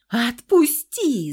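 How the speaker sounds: loud, drawn-out slow cry; wife screaming at her husband to let go; desperate scream. A narrator's reading. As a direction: scream it blindly, struggling. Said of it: "закричала слепо".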